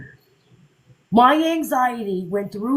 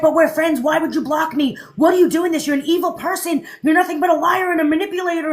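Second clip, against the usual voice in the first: mock upset fan; 4 semitones higher, 3 dB louder, faster than usual. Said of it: "And she's like".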